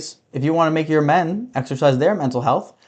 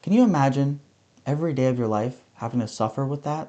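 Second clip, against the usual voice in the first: softer, hushed fake-serious "can you imagine"; mock sincere; 2 semitones lower, 6 dB quieter than usual. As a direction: drop down as if this were heartfelt. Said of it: "but seriously, on a serious note".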